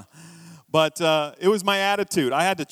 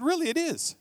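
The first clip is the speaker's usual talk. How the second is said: mock retort; 11 semitones higher than usual. Preacher's retort to critics.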